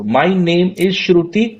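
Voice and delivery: slow, rising, drawn-out intro; the wrong way; overdone, drawn out. Shown as a demonstration. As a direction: drag it and lift the end. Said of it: "इतना वो मत करो".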